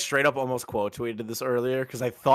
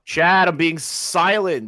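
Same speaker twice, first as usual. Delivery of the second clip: melodramatic protest; 9 semitones higher, 7 dB louder, slower than usual. Pretend. Melodramatic protest when kicked.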